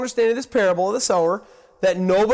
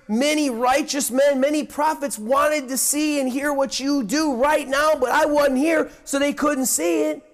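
higher-pitched, eager address to followers; acted excitement, pitched up throughout; excited Jesus; 5 semitones higher than usual. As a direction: speak as an excited teacher sharing a long-awaited privilege. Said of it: "hear the excitement in the voice of Christ".

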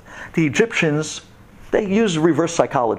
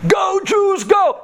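high, loud fan chant; mock cheering shout; 4 dB louder, much slower than usual. Datan and Aviram switching sides, loud high mock cheer. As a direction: yell it like a turncoat fan. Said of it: "took out new signs".

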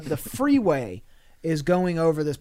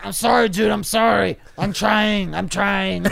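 higher, pleading sorry; sheepish apology; 5 semitones higher, 4 dB louder than usual. Retold or imitated. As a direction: apologize like a caught drunk. Retold drunk apology while dragged.

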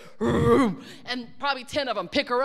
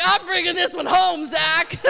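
loud, high, thrilled joke; excited exclaim; 6 semitones higher, 9 dB louder than usual. Retold or imitated. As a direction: gush about keeping the baby. Excited retold thought, loud.

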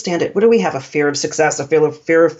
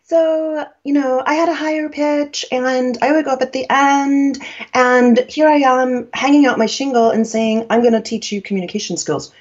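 lightly raised pitch, rising at phrase ends; higher young voice; 6 semitones higher than usual. Shown as a demonstration. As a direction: imitate your younger self, going up at the end. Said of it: "I'll do an imitation of myself".

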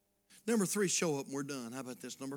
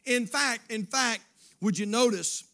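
loud, raised, punched phrases; emphatic preaching; 8 semitones higher, 12 dB louder than usual. Real, not acted. Preacher turns church to God's counsel, emphatic preaching. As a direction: grab the congregation's attention.

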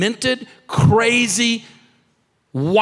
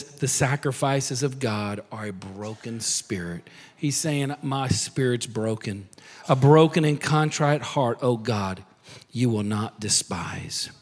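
broken spirit; 9 semitones lower, 7 dB quieter than usual. Retold or imitated. Reading broken-spirit psalm softly.

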